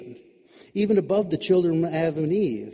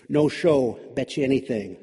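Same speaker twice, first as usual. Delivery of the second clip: smug. Acted. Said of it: "the bunny said smugly".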